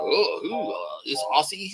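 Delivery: mock bewilderment. Mimics a man puzzled by him.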